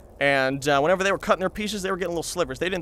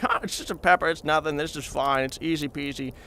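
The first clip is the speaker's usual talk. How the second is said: casual brush-off, tailing off softer; playing it off; 4 dB quieter than usual. Acting cool before his brother's buddies, playing it off. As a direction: shrug it off like nothing is wrong. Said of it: "trying to play it off".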